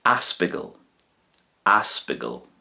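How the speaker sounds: ospidéal as aspigal, with a g; Connacht ospidéal. Shown as a demonstration. Teacher models Connacht hospital, ospidéal as aspigal. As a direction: open on a and turn the d to g in ospidéal. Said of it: "hear it being pronounced like this".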